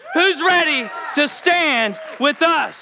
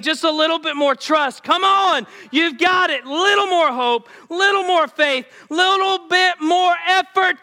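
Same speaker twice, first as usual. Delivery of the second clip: a lightly voiced, urging Jesus; Jesus encouraging. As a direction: coax them on like Jesus at their side. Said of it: "Jesus is saying".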